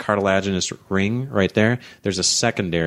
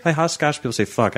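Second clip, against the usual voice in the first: higher put-on Scottish; Scottish accent; 6 semitones higher than usual. Shown as a demonstration. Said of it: "you're Scottish".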